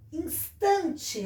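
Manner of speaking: "Instante" very slowly, stretching TAN; "ins-TAN-te", drawn out; strong syllable shown. Shown as a demonstration. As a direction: sound out "Instante" with weight on TAN. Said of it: "é o tan".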